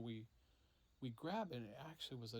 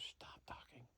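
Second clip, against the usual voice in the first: whispered hushed warning; softly hissed command under the breath; urgent whisper; 6 dB quieter than usual. Retold or imitated. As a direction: whisper to silence the group. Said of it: "And she goes".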